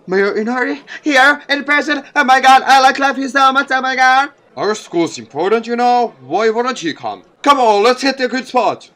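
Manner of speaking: high, loud, squealing schoolgirl gush; excited fangirl. Acted. Classmate gushing to friends that the mayor came, squealing excitedly. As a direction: squeal it like you can't believe he's here. Excited student voiced in story.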